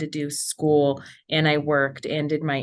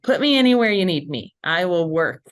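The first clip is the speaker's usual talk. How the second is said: eager self-quote; 2 semitones higher, 7 dB louder than usual. Retold or imitated. Intern telling the company to use them anywhere, eager and emphatic. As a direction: retell it with keen, forceful willingness.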